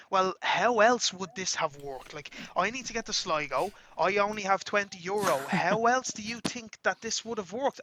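slow, drawn-out indignant comeback; giving lip. Retold or imitated. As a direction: imitate someone arguing back, stretching the words. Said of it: "He start giving me lip".

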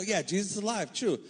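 "Yeah, Jesus is alive" tossed off quickly and lightly; offhand stock phrase. Shown as a demonstration. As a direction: say it like a cliché you don't think about. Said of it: "a phrase that we as Christians use".

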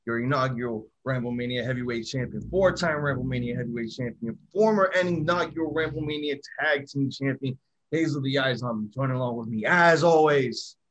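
booming ring announcer intro; ringmaster. Acted. Wrestling podcast intro announcement.

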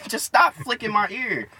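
mildly exasperated protest; retold exasperated plea. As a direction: plead slowly, fed up. Retells pleading with classmate to stop.

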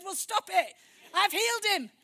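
loud, high, punched-out command; acted-out scolding at near-shout level; emphatic rebuke. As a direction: tell her off forcefully, voicing God. Acts out God rebuking her doubt.

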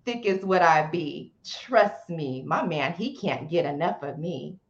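spoken word poem recital; nervous open mic poet. Acted. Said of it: "a short poem you could say for us".

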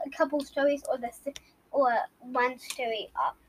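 whisper. Real, not acted. Trailing off while answering a question.

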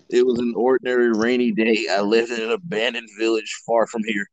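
low, even narrator reading; story narration. Acted. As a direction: read it out low and measured.

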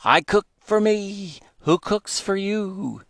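high, hooting owl voice, slowing on who cooks for you; owl call words. Retold or imitated. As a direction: brother imitating the owl's call. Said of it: "it sounds like the owl is saying".

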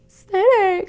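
high, falling scold of the name; imitating mom's shocked scold; drunk scolding mom. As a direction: call her name like a tipsy upset mother. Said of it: "She's hammered".

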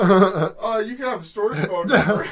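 a hint of a dismissive girl; lightly voiced brush-off; girl's voice. Voicing the girl in retold scene.

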